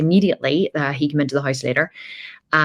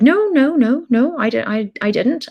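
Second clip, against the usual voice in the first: put-on much higher, louder frantic kid voice; guilty five-year-old denying to her dad; panicky child denial; 9 semitones higher, 3 dB louder than usual.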